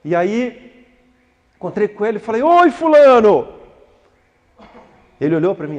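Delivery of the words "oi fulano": calling out hello. Retold or imitated. Greeting an old acquaintance.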